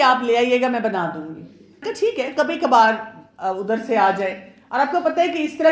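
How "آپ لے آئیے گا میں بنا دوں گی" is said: said lovingly. Shown as a demonstration. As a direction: coax him gently, lovingly. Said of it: "تو آپ پیار سے کہیں کہ". (پیار سے، نرمی سے ہنستے ہوئے)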